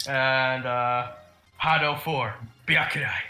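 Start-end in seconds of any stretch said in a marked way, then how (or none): 1.6-3.1 dramatic, edgy anime-style attack incantation. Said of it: "some attack quotes".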